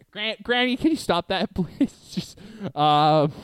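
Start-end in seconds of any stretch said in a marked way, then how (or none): 0.1-1.9 high laughing plea. Real, not acted. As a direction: giggle through the plea. Laughing, pleading to partner.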